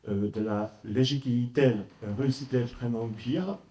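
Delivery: French spoken with a Polish accent; careful non-native French, Polish accent. Real, not acted. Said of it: "excusez-moi si mon français est moins parfait".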